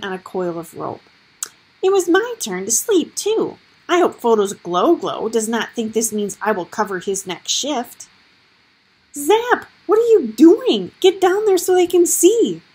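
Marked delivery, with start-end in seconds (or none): 1.8-8.1 whiny bat voice. Acted. Bat Zap complains, voiced. 9.1-12.6 high, loud urgent demand; urgent shout. Acted. Gregor urgently orders bat.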